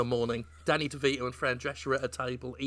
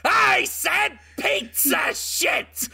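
higher, louder, very slow yelled correction; hammed-up shout; 12 semitones higher, 5 dB louder, much slower than usual. Chef yelling his correction at Pattinson, hammed-up. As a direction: bellow the correction out, dragging every word. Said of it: "I didn't say piece of shit".

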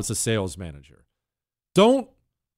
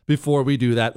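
ordinary talk

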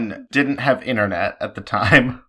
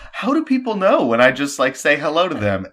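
puzzled self quote; 4 semitones higher than usual. Retold or imitated. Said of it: "I was always like".

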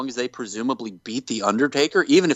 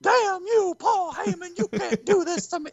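Paul Bearer impression. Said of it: "He's like".

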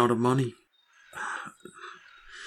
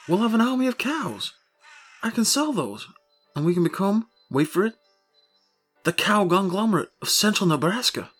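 wild unhinged ranting; 3 semitones higher than usual. Acted. Grandiose cow empire rant.

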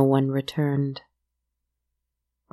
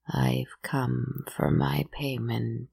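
hag voice; 3 semitones lower, 4 dB quieter, slower than usual. Acted. Hag answers at the door.

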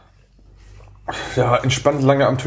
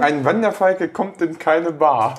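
mouthpiece talk; 3 semitones higher, slower than usual. Acted. Repeating through mouthpiece.

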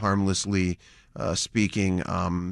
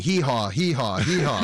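Rich Daley's high-pitched hee haw; 5 semitones higher than usual. Retold or imitated. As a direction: mimic a mayor braying like a donkey, higher up. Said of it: "a lot funnier in Rich Daley's high-pitched voice".

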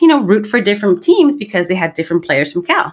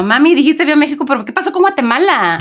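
put-on high, fast child's voice; lightly voiced child complaining; kid voice; 7 semitones higher, faster than usual. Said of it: "That's my kids now".

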